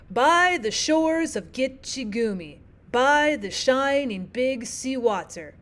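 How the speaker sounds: slow strong-weak beat, leaning on By, shores, Gitche, Gumee; measured verse, stress first in each pair: BY the SHINing BIG sea WAter; trochaic reading. Shown as a demonstration. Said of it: "This is trochaic".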